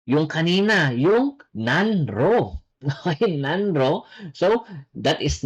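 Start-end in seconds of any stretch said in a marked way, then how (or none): 1.5-2.7 "nanro" said slowly with separate n and r; spelling pronunciation. Shown as a demonstration. Korean teacher reading out the spelled word, spelling pronunciation. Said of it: "magiging ang pronunciation niya ay nallo". 3.4-4.0 "nanro" with a clear n before the r; spelling pronunciation. Shown as a demonstration. Korean teacher repeating the spelled word, spelling pronunciation. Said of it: "magiging ang pronunciation niya ay nallo".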